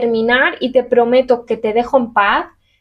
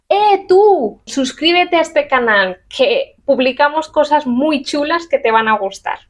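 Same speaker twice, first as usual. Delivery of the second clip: calling out; 2 semitones higher than usual. Shown as a demonstration. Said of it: "si yo digo".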